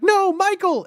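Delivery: high yelled call to a pet. Pretend. Calling after a runaway pet, yelled high. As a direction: shout the name down the street.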